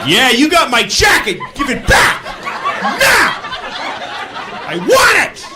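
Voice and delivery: hammed-up outrage; mock shouting. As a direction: yell like a wronged man. Shouting nonsense at driver.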